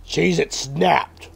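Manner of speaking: emphatic product announcement. Pretend. Correcting himself on the snack name, emphatic and slow. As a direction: announce the snack with drawn-out punch.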